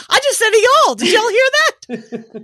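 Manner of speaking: high, loud mock surprise, slowing to the end. New Yorker catches herself saying y'all, in high mock surprise. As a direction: squeal it out as if catching your own slip. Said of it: "I'll be like".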